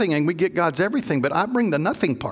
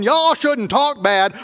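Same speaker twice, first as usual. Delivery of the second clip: slow, preachy finger-wagging; self-righteous scolding; 5 semitones higher, 4 dB louder, slower than usual. Retold or imitated. Self-righteous prophet scolding the people, slow and preachy. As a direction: lecture them from on high. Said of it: "self-righteous one who's going".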